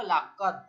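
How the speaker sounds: লাকদ closed on an unreleased দ; লাকদ with no push on the final consonant; without qalqalah. Shown as a demonstration. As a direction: stop dead on the d of লাকদ, no echo. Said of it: "ধাক্কা না দেওয়া".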